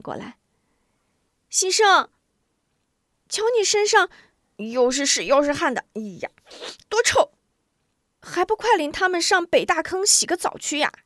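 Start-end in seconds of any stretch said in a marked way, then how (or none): 1.5-10.9 put-on high, loud teasing girl calling a boy. Sister teases Xisheng about his smell, high loud call. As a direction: wrinkle your nose and shout him over.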